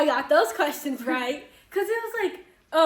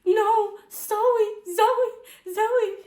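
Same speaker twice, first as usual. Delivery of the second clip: higher, louder repeated name; mock insistent correction; 7 semitones higher, 5 dB louder, much slower than usual. Classmate repeats her name, mock insistent. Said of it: "She's like".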